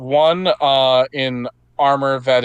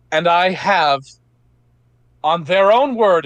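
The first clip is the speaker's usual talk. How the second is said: rousing knight's speech; 5 semitones higher than usual. Acted. Johanna's speech to the crowd.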